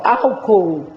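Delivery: "álcool" slowly, split into its syllables; dividing syllables. Shown as a demonstration. Teacher showing how to divide syllables, "álcool" slowly segmented. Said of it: "é só dividir sílaba".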